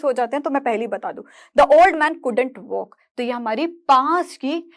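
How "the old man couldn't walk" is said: slow, word by word for writing down; dictating to students, each word drawn out slowly; slow dictation. Shown as a demonstration. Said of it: "dictating example slowly".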